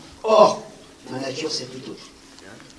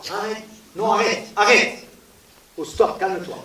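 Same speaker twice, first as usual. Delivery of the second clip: higher, louder urgent calls to a friend; calling out stop; 6 semitones higher, 6 dB louder than usual. Retold or imitated. Speaker imitates calming an angry best friend, urgent louder calls. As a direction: shout to stop a friend boiling over.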